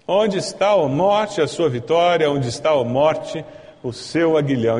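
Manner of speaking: scripture repeated in a steadier voice, settling down; composed, unhurried recitation; measured re-reading. Acted. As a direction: read the verse deliberately, easing off toward the end. Same verse repeated more calmly.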